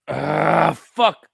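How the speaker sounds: hiccuping out a curse; jolted by a hiccup. Real, not acted. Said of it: "I got the hiccups".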